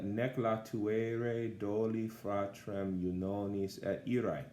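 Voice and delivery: slow, measured recital of the Latin line; reading Latin verse. Shown as a demonstration. Teacher reading a Virgil line aloud to class. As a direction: read the Virgil line slowly with care. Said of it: "I think it's, uh".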